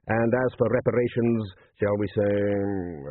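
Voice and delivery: lightly voiced patrician reading out terms; urbane patrician. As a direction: offer the terms with unruffled ease. Patrician reads surrender terms aloud.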